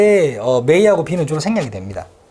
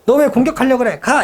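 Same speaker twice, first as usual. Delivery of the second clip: raised pitch, scolding the intruder; mock bird scolding; 7 semitones higher, 4 dB louder than usual. Bird scolding a rival who attacked. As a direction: shoo it off like an angry bird.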